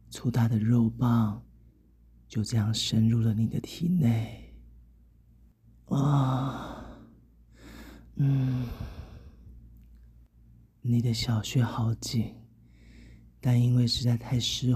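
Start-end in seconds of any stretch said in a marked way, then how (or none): 5.9-8.7 long sighing moan; drawn-out moan. Acted. Narrator acting in an intimate scene, drawn-out moan. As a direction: let a moan out slowly.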